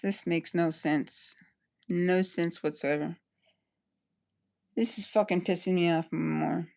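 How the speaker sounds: whispered frustration. Real, not acted. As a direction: breathe it out to yourself. Muttering to self in disbelief.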